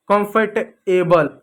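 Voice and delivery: कंफर्टेबल said slowly, syllable by syllable; कंफर्टेबल drawn out for learners; slow careful pronunciation. Shown as a demonstration. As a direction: spell out कंफर्टेबल slowly like a teacher. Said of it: "यानी आरामदायक".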